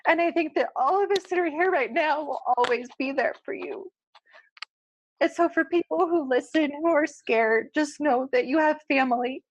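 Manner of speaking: pushing through the tears to promise support; tearful. Real, not acted. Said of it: "It's not a Heather podcast if I don't cry".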